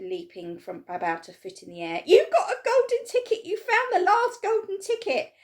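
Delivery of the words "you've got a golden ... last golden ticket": high, loud frantic yelling; excited shouting. A narrator's reading. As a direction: call the whole shop over.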